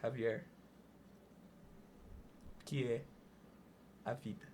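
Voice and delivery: lightly imitating a solemn interviewer, each word apart; Antônio Abajurama's question again. Host repeats the big question to the guest, low and hushed. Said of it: "ele perguntava".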